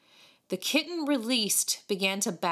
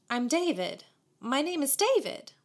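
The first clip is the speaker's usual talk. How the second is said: friendly, higher-pitched reminder; gracious; 8 semitones higher than usual. A narrator's reading. David reminding the mocking boys of his name, graciously. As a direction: gently correct them with a smile. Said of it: "The reminder was graciously given, with a smile".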